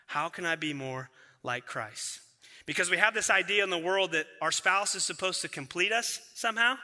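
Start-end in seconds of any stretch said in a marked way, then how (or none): 0.1-2.2 lower, soft, slowed self-question; quiet calm question. Retold or imitated. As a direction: ask yourself slowly and gently. Calm answer replacing lashing out.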